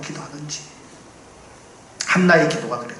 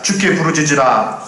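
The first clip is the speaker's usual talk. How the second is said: call to cry out; 3 dB louder than usual. Shown as a demonstration. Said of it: "크게 따라서 외쳐보겠습니다".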